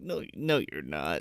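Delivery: deadpan put-down. Retold or imitated. Flat put-down retort.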